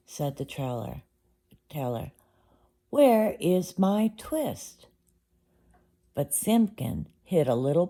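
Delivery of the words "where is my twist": slow, higher, drawn-out plea; slow insistent question. Acted. Tailor asking Simpkin a second time, slow and pleading. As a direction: stretch each word, pleading. Tailor asks the cat again.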